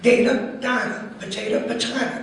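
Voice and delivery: "data" as day-ta then dat-a, "potato" both ways; alternate pronunciations. Shown as a demonstration. Comic riff on saying data two ways. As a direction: swing between the two ways to say each word. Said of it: "I say potato".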